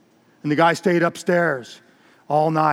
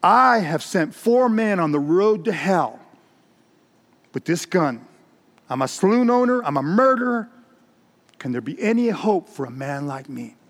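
acted anguished confession, pitched up; insistent; 3 semitones higher than usual. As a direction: insist on your guilt, then sink into a plea. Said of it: "he persisted".

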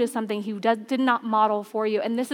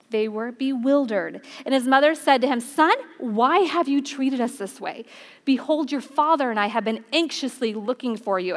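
scripture reading. Acted. Pastor reading Luke to the congregation, measured. Reads scripture passage aloud.

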